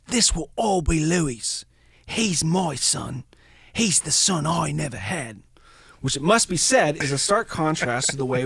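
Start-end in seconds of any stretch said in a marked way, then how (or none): 0.1-5.4 put-on a proud old German man; a hammed-up slow German accent; terrible German accent. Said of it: "It's my terrible German accent".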